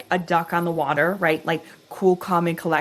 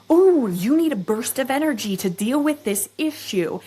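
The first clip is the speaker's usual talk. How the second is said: body talking; 5 semitones higher than usual. Retold or imitated. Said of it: "And my body says".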